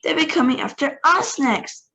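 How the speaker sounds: high, loud fearful yell. Acted. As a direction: yell a warning. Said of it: "yelled Grandma Georgina".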